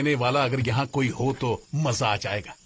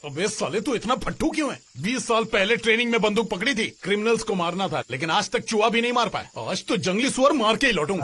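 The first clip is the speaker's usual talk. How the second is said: raised-pitch, scornful rant; drunken taunting; 5 semitones higher than usual. Acted. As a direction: berate a timid companion, then boast. Drinker taunts his timid companion.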